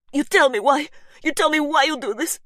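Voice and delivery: put-on high, loud accented demand; angry demand. Gabriella demands answers from Faith, angry and accented. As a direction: force the answer out of her.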